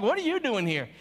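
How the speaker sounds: mock judgmental challenge. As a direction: needle him like he doesn't belong. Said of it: "Like, in that tone of voice".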